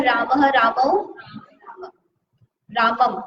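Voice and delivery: रामः रामौ रामम said slowly, each form set apart; declension recited. Shown as a demonstration. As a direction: count the three forms slowly. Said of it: "बहुवचन के लिए क्या आता है?".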